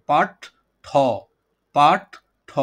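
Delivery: "পাঠ ঠ" in two separated beats, then repeated; syllable breakdown. Shown as a demonstration. Teacher showing two syllables in a word, "পাঠ ঠ" said piece by piece. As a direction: break "পাঠ ঠ" apart with a pause. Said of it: "পাঠ্যর মধ্যে দুইটা অক্ষর".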